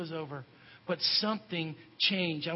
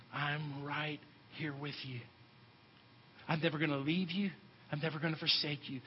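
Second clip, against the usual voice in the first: whispering Jesus; 2 semitones lower, 7 dB quieter than usual. Acted. Jesus promising never to leave you, softly. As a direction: reassure quietly, close to the ear. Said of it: "He's whispering and he's saying".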